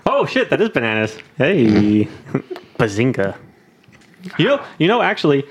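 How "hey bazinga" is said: sitcom catchphrase. Pretend.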